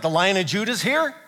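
mildly amazed, rising at the end; astonished question. Acted. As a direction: ask as if hardly believing the news. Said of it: "John's like".

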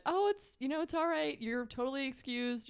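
a hint of high-pitched, placating reassurance; reassuring judge. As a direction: imitate a judge soothing someone in a high voice. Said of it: "And the judge just said".

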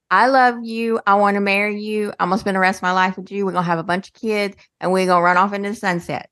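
Thomas's fast imagined gushing; fast gushing fantasy. Retold or imitated. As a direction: gush it all in a rush. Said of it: "What Thomas heard was".

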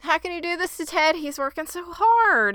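hammed-up fury, pitched high; mock angry. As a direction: scold the boss on Ted's behalf. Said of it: "I was so angry with Rebecca".

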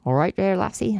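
put-on weak Scottish accent; failed attempt at a Scottish burr. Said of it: "I can't do a Scottish accent".

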